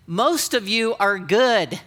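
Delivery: "Most of you are good" stretched out slowly, each word placed; slow, pointed delivery. Shown as a demonstration. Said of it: "Listen to me talk".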